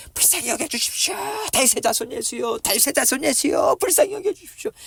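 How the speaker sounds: high, strained repeated cries; insistent crying out. Acted. Blind beggar crying to Jesus for mercy, insistent shouting. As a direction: keep calling desperately, over and over. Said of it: "소리를 계속 지르는 거예요".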